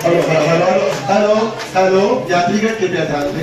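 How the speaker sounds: loud station PA announcer voice; echoing train announcement. Acted. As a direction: announce it like a railway platform.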